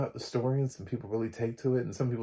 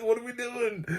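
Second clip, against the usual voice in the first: mock cocky quip. Imagined badass line.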